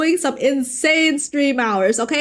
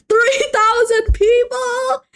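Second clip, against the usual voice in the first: mock amazement; 9 semitones higher, slower than usual. Mock awe at viewer count.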